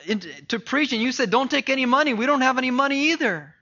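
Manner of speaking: a hint of protesting disciples; incredulous disciples. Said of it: "The disciples are like".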